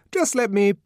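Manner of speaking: urgent, cut-off request; interrupted coaxing. A narrator's reading. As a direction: try to get a word in. Official interrupted while coaxing the savage.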